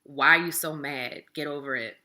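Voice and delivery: a loud, impatient brush-off; dismissive. Shown as a demonstration. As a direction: snap it off like you're tired of their feelings. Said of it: "a not so validating statement".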